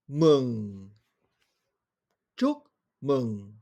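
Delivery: Chúc mừng with low throaty mừng; Vietnamese chúc mừng. Shown as a demonstration. Teacher models congratulations in Vietnamese, careful tones. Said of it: "quel son entendez-vous?".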